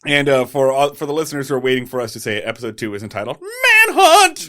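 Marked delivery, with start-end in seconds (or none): 3.9-4.5 big booming announcement of the title; trailer-style title boom; dramatic title reveal. Acted. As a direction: shout it like a movie trailer.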